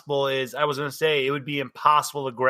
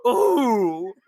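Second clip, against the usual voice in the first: higher, drawn-out ooh; person's startled ooh; 4 semitones higher than usual. Acted. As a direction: let out a comic ooh. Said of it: "Person just goes".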